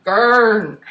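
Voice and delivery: a hint of a booming giant from a tiny pony; lightly done big-giant grunt; giant's voice. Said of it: "a giant's voice 'cause he's so little".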